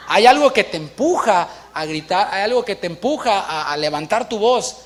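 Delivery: ordinary delivery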